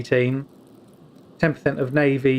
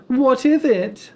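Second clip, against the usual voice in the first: slow, higher, mildly alarmed question; mock film quote; 11 semitones higher, 5 dB louder, much slower than usual. Streamer imitating a Harry Potter scene, slow worried ask.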